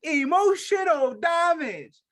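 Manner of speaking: loud, high, drawn-out mock Asian accent; hammed-up Asian-accented catchphrase, stretched out. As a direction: boom it slowly in a badly faked Asian accent.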